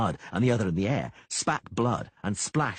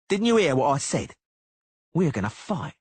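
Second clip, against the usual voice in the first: higher, louder, sneering challenge; cocky swordsman spoiling for a fight; menacing duelist; 7 semitones higher, 5 dB louder than usual. A narrator's reading. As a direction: goad him into a fight. Cicada insists on a duel.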